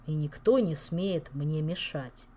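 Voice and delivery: slow, menacing threat; growled warning. Acted. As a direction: drag it out as a threat. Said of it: "медленно и угрожающе произнёс он".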